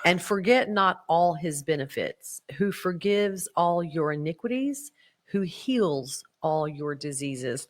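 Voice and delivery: measured devotional reading; scripture reading. Acted. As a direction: read the psalm with reverence. Reads scripture aloud.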